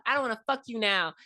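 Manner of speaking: high startled yelp then annoyed; startled shriek. Retold or imitated. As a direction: jump with fright, then scold. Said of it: "she's like".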